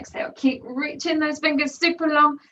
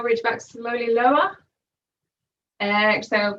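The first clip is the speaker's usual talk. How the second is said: strained, shaking voice mid-crunch; shaky voice. Real, not acted. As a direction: voice shaking from effort. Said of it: "you can hear my voice is shaking doing this".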